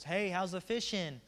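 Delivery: mock call across the water. Jesus calling from shore to Peter's boat, mild yell. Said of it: "Jesus yells out and goes".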